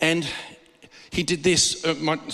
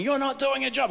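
retold outburst; 8 semitones higher than usual. Acts out Steve yelling at God.

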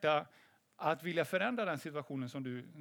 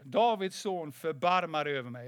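firmer, mildly raised call for mercy; retold louder calling; 4 dB louder than usual. Silenced beggar calls harder to Jesus, retold raised call. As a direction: imitate the beggar calling out more insistently. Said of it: "han ropade bara ännu högre".

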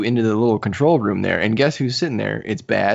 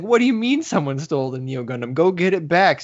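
mock angry demand, rising on go get it back; lightly voiced irritated captain; mildly upset boss; 6 semitones higher than usual. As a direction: imitate a commander who has lost his patience. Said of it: "So he's really upset".

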